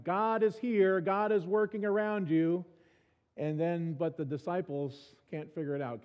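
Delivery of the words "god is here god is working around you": higher and louder, urgent proclamation; exclaiming. Pretend. Preacher voicing scripture's cry, higher and louder. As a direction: call it out like scripture shouting at you. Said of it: "screaming at us going".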